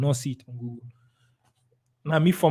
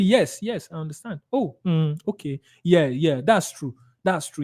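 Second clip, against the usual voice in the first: understanding agreement. Shown as a demonstration. Seller siding with a doubtful client, gently agreeing. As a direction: murmur along as if on their side. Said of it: "make them to, it's as if".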